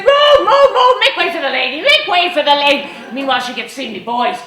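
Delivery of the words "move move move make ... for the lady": high, loud crowd-clearing shout with a laugh; commanding shout. Retold or imitated. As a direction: part the crowd for the lady. Clearing path for lady.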